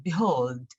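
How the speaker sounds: behold stressed, falling away at the end; emphasis on behold. Shown as a demonstration. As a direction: lean on behold as the key word. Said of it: "with emphasis on, on that word".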